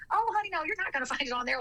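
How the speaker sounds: put-on light Southern accent. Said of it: "little Southern accent".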